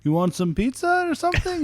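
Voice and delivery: very high, gentle character voice; light, high put-on voice; Korg. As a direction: imitate a soft-spoken sidekick offering a snack. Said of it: "You know, Korg, he's like".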